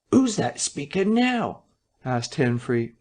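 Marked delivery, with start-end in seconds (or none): 0.1-1.6 puzzled listener. Acted. Listener at the door.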